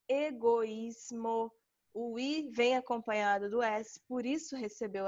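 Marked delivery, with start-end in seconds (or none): 0.1-1.5 slow example word. Shown as a demonstration. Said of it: "Percebam que o I foi acentuada".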